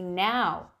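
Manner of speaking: loud snapped command; urgent yell. Acted. Annabeth yells at Percy to flee the bus, loud. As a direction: drive him out now. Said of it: "Annabeth yelled at me".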